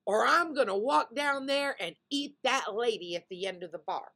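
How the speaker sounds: lightly acted threatening bear; mock threat. Joke's bear threatens to eat a customer, mock menacing. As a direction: push the threat, then let it settle.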